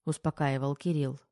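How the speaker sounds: ordinary delivery, nothing marked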